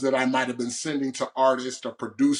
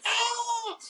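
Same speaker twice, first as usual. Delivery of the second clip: re-enacted celebratory "Ah!", pitched way up; mock excited scream. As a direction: imitate an elated scream, held back in volume. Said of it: "we just started screaming".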